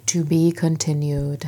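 slow, drawn-out episode sign-off; mock cliffhanger announcement. Host quoting the episode's hated ending, mock announcement.

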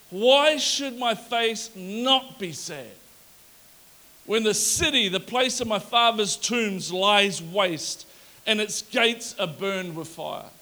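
slow, weighty reading of the verse; solemn scripture reading. Acted. Preacher to congregation, reading Nehemiah's reply solemnly. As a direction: let each phrase land slowly.

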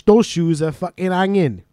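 slow, emphatic example line; example sentence. Shown as a demonstration. Host demos the slang for the guest, slowly. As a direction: act out the slang use slowly. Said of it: "so you'd be like".

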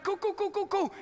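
high, breezy cool cool cool; casual Noah. Acted. Noah casually agreeing to God's boat plan. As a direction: shrug it off like an unbothered dude. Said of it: "he's like".

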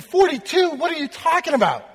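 high-pitched, incredulous outburst without full volume; mock scream. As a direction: act out a shrieked, outraged question, voice held back. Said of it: "the other guy just kinda screams".

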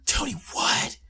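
squeaky disbelief, high up; shrill mock confusion; high incredulous voice. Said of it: "they're saying".

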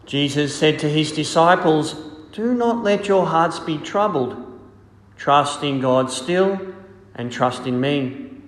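solemn liturgical reading voice; gospel reading. Acted.

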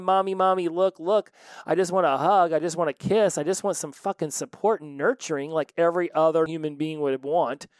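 lightly voiced child pleading for a hug; child yelling for mommy. A hint of a kid calling to mommy for attention. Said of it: "if the kid keeps yelling".

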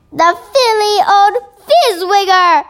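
indignant giant outburst; shouted. Acted. Giant furious at cruel orphanage owner, shouting. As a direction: spit out the insult in outrage. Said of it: "shouted the B F G".

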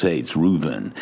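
impression of the Israeli station manager; Reuven's voice. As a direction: drop low to mimic the boss. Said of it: "he used to speak like this".

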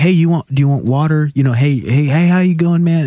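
cheerful mate saying hi across the mat; imitating the friendly jiu-jitsu guys welcoming him; friendly greeting. Friendly gym mates greeting him.

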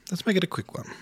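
bright, loud restated push; emphatic repeat. Shown as a demonstration. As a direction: say it again with a burst of energy.

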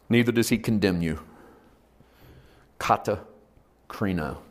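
measured pastoral exhortation with long pauses; leading into prayer. Real, not acted. Preacher asking congregation to bow heads, measured call to prayer. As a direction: let each assurance settle on the listeners.

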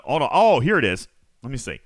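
ordinary delivery

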